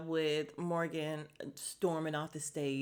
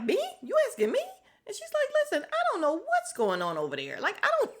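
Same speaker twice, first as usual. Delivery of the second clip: flustered disbelief; 6 dB louder, faster than usual. Retold or imitated. Retelling a flustered castmate.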